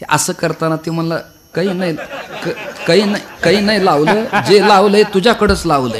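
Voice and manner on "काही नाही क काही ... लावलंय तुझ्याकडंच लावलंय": high, stammering protest; raised, hurried excuse; flustered denial. Acted. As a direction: blurt a defensive denial, caught out. Caught Arjun stammers a defensive denial.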